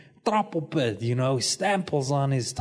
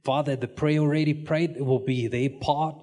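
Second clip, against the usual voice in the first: pastor's prayer; 2 semitones lower than usual. Real, not acted. Pastor dedicating a baby to the Lord, praying. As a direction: pray it out in steady, even phrases. Prays over a child.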